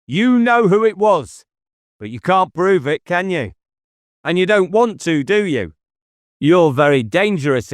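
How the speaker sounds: calm, knowing denial with a light Cornwall lilt; a hint of Cornish in a cool, sly reply; subtle Cornwall burr. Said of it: "Jippo's accent had gone ... vague Cornwall burr".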